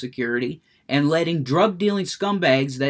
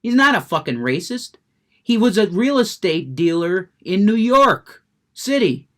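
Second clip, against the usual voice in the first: loud, higher-pitched angry rant; worked up; 5 semitones higher, 5 dB louder than usual. Real, not acted. Streamer defending the president to his critics, worked up. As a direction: build to a heated, exasperated outburst. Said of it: "I'm getting worked up".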